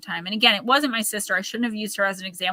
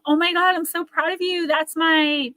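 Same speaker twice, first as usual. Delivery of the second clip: high, gushy imitation of a fake fan; mock gushing praise; 7 semitones higher than usual. Imitating a fake supporter typing praise, mock gushing. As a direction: gush over them with a hint of put-on sweetness. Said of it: "when someone is sitting there typing".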